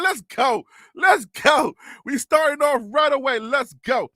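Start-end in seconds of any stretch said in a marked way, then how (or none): 0.0-1.7 hype shout. Real, not acted. Hyping show start.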